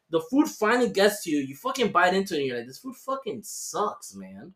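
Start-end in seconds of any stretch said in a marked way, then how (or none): 2.7-4.5 slow, low, soft grumble; mock muttered complaint. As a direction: drag it out unhappily. Retold disappointed reaction.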